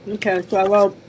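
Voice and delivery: talking around a mouthful of candy; chewing while talking. Real, not acted. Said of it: "sorry, I'm chewing my candy".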